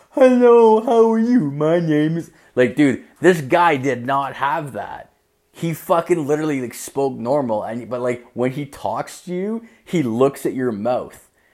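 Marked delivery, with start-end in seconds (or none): 0.2-2.3 very high-pitched deaf speech voice. Describing how deaf people talk before meeting a man, imitating deaf people's speech. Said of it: "they have that, like, tone of voice".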